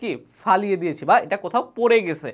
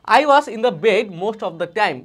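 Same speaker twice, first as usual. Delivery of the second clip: slow model reading; 3 dB louder, much slower than usual. Shown as a demonstration. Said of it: "teacher models the line slowly".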